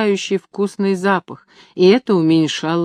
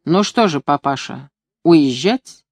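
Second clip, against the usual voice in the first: plain reading voice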